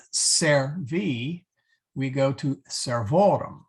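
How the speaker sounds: servi said slowly, then servorum with stress on ORU; slow servi, then lean on the RU of servorum; teacher contrasting servi and servorum stress; accent shift shown. Shown as a demonstration. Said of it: "emphasize that slight difference".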